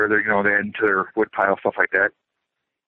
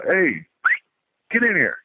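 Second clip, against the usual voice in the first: mock call to dog; 8 semitones higher, slower than usual. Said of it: "you hear a guy's voice go".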